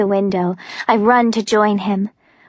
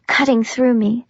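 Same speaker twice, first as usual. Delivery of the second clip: ordinary delivery, nothing marked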